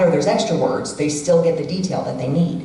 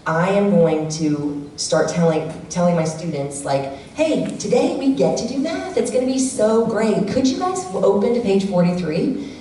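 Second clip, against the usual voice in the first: cheerful teacher voice. Retold or imitated. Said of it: "slightly changing the tone".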